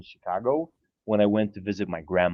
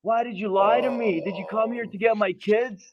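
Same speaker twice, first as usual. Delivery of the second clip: imitating the angry dad; 10 semitones higher than usual.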